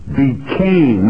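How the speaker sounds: Became, said firmly; stress on became. Shown as a demonstration. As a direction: lean on Became, then pause. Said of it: "I want to repeat".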